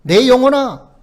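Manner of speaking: firm imperative, loud opening call; commanding. Retold or imitated. Psalmist ordering his own soul to hope, commanding. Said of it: "명령형으로".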